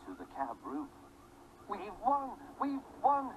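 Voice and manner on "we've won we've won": higher cheering cry of victory; joyful shout. Acted. Fireman on the cab roof announcing the win, higher joyful shout. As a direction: crow it out, thrilled. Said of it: "he shouted".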